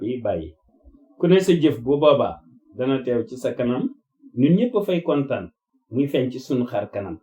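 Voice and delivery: measured declaration in short phrases; formal testament. Real, not acted. Addressing the family with a testament, formal and measured. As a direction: deliver it formally, pausing between phrases.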